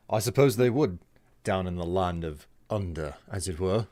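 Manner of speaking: put-on wobbly British accent. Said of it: "swinging wildly between Aussie, New Zealander, and various British accents".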